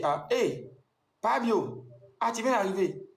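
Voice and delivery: high, mock-surprised receptionist greeting; imitating receptionist. Receptionist greets Fabio at the hotel door, high mock surprise. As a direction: squeal it like the delighted receptionist. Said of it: "elle dit".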